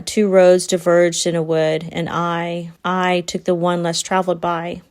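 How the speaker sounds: measured poetry reading; poem recitation. Acted. Rereading a favourite stanza to listeners, measured recitation. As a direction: recite it evenly, line by line. Rereads the poem's final lines.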